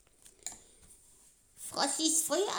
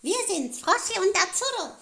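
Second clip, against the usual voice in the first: silly clown; 5 semitones higher, 7 dB louder than usual. Acted. Puppet clowns greeting children.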